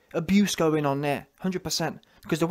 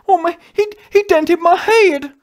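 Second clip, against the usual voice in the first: mock loud crying whine; 10 semitones higher, 8 dB louder than usual. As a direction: ham up a crybaby's loud complaint. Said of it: "what's wrong with you man crying".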